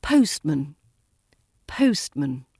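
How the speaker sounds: POST stressed, man low and light; first-word stress. Shown as a demonstration. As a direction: punch "post" in postman. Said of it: "R P stress on the first word".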